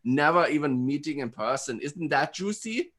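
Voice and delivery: put-on German speed-dater; German accent. Host sharing juicy fact on speed date, German accent. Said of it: "I'm just talking in a German accent".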